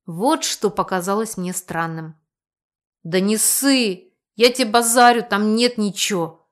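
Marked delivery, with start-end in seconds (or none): 3.0-6.5 patronizing. Acted. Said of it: "покровительно выдал этот проводник".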